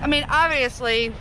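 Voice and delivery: talking through a mouthful of chips; chewing while speaking; mouth full. Real, not acted. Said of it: "sorry, mouthful".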